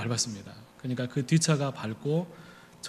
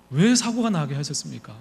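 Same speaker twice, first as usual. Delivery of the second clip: mock angry protest; 4 semitones higher than usual. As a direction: protest to God with rising heat. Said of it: "너무 화가 나고 막 분해지기 시작하는 거예요". (하나님께 분해서 따지듯)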